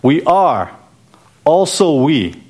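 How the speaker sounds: "We" stressed twice, with a pause between phrases; emphatic WE. Shown as a demonstration. Preacher shows what the Hebrew says, emphatic on "we". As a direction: punch each "we" separately. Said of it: "this is a-, emphatic".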